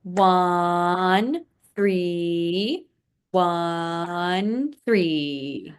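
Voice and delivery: one and three stretched; held counting. Shown as a demonstration. Teacher counting half notes in numbers, held counts. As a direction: hold each count two beats. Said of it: "Can be counted out like this in numbers".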